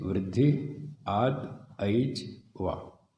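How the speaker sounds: वृद्धि, आत, ऐच, वा said as separate pieces; teacher splitting the sutra into words; word split demo. Shown as a demonstration. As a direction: break वृद्धिरादैच into its parts. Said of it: "पदों को तोड़ के अलग-अलग बताना".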